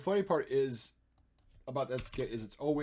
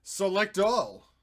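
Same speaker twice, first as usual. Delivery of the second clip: drawn out; 6 semitones higher, 8 dB louder, much slower than usual. Pretend. Drawn out command.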